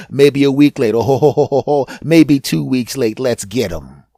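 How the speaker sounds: a sly cartoon villain plotting; scheming villain virus. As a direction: plot the attack like a gleeful bad guy. Stomach virus voiced plotting.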